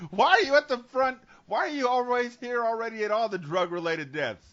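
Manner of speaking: high-pitched acted questioning; mock suspicious questioning. Cop asks why he is always there first, mock suspicion.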